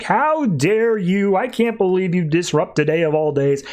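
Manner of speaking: retold outrage, stretched at the start; mock telling-off. Babs scolds Grayson on the roof, mock indignant telling-off. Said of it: "just starts laying into him".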